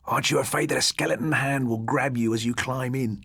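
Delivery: put-on boy teasing his friend, voice kept down. A narrator's reading. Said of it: "teased Jeff".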